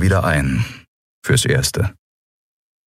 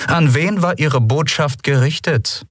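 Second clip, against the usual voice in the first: cold interrogation; 10 semitones higher than usual. A narrator's reading. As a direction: drill each word into him. Interrogation resumes.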